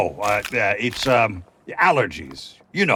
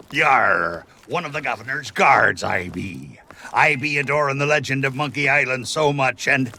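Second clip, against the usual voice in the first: pirate guard impression. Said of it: "marvel at my mastery of impersonation".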